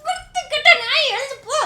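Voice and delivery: loud scolding, get lost; angry shout. Acted. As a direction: yell at him to get up. Wife shouting him away.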